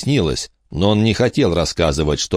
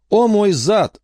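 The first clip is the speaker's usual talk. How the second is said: scoffing; slower than usual. Acted. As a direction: sneer at the threat. Enoch scoffs.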